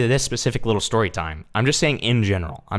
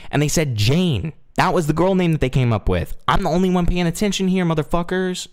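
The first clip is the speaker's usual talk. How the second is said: raised, higher-pitched exasperated scolding; indignant rant; 8 semitones higher, 4 dB louder than usual. Acted. Streamer defending against being cancelled by viewers, indignant and high. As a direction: argue back loudly at your accusers.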